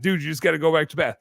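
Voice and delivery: hurried know-it-all repeat. Retold or imitated. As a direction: rattle it off again, condescending. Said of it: "mansplaining stuff to him".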